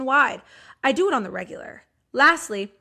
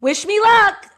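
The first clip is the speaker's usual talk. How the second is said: mock all caps; 5 dB louder than usual. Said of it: "in all caps with an exclamation point".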